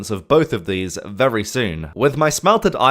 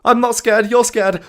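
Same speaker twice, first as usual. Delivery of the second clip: false bravado; 10 semitones higher, 4 dB louder than usual. Real, not acted. Denies fear right after screaming.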